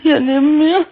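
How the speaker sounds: real tears breaking into the words; a voice breaking from fresh grief; crying. Real, not acted. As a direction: widow crying over her husband's sudden death. Widow tells of husband's death.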